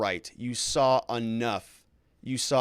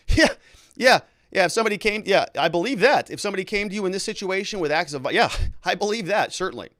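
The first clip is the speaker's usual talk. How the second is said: mocking yeah-yeah, louder, with a laugh; scoffing; 5 semitones higher, 4 dB louder than usual. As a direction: play the sneering doubter, hammed-up. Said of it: "So they're going".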